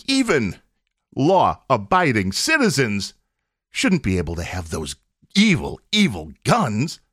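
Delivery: a hint of a preachy opponent; mock quote. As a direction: drag out evil, evil to ridicule it. Mocking the opponents' view.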